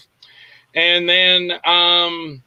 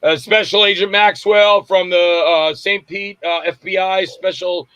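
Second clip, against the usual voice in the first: slower, louder, official agent voice; mock FBI agent; 3 semitones higher, 4 dB louder, slower than usual. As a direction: play the stern federal agent announcing himself. Pranks a crowd as FBI.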